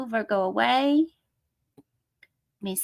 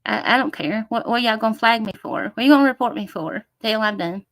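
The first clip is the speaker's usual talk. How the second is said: defiant. Real, not acted. Defiant challenge to viewers.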